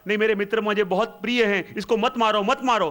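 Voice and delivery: lightly acted begging for friends' lives; acted pleading. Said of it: "मैं उनके चरणों में गिर गया".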